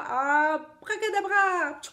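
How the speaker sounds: high, loud, slow magic word; magic incantation. Acted. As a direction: sing out the spell grandly.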